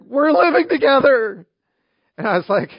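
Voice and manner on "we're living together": high, loud, drawn-out mock wail; hammed-up tearful confession; mock uncontrollable crying. Sobbing couple confessing to the pastor, imitated wail. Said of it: "crying uncontrollably, and they're like".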